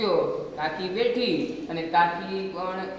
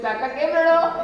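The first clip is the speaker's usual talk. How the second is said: put-on pleading boy; 9 semitones higher, 6 dB louder than usual. Boy asks crying uncle.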